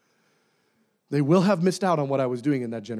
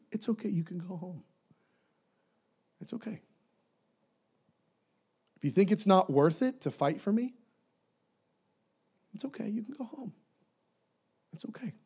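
much softer, gentle whispered comfort; tender reassurance; 5 semitones higher, 5 dB quieter than usual. Acted. God gently telling the fearful to go home. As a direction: soothe them, almost whispering.

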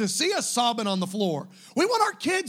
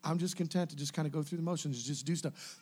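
a quick, much softer lazy mumble; mock complacent believer; 6 semitones lower, 11 dB quieter than usual. Pastor mimicking a complacent churchgoer, lazy soft drone. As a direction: drone it off, half-hearted and bored.

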